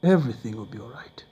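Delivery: soft whispered reassurance; whispered comfort. Retold or imitated. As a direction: hush him gently. Widow comforts him.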